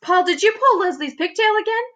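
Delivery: high, distinct schoolteacher voice; teacher quizzing Paul, set apart from the narrator; teacher's voice. A narrator's reading. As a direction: question the pupil as the stern teacher. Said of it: "Missus Jewls asked".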